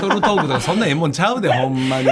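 trying not to laugh. Real, not acted. Host denies battle talk while laughing.

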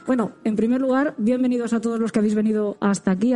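muffled behind a face mask; speaking through mask. Real, not acted. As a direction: talk with a mask over mouth. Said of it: "tuvimos que hablar con la boca cubierta por la mascarilla".

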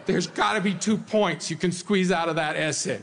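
lightly hammed-up plea, insistent; mock begging. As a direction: bargain in pretend desperation. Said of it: "begging Jesus".

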